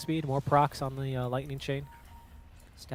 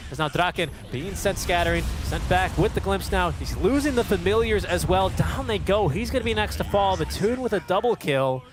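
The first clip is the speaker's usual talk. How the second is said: excited play-by-play; 3 semitones higher than usual. Real, not acted. Teamfight play-by-play call.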